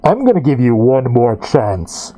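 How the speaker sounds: a towering man giving one last chance; looming knight warning. Acted. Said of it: "He looks down at you and goes".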